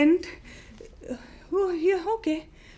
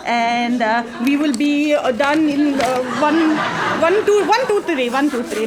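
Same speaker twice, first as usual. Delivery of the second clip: rushed; 6 dB louder than usual. Acted. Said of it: "Very, very fast".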